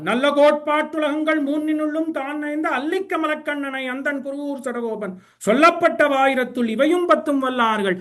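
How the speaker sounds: flowing Tamil sacred-verse recital; verse recitation. Acted. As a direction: recite the verse in long rhythmic runs.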